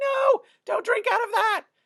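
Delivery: high-pitched, loud screaming. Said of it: "I screamed at him".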